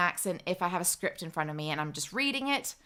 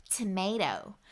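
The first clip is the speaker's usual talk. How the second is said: "tomato" in an American accent; 4 dB quieter, slower than usual. Shown as a demonstration. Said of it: "like my American friend and say".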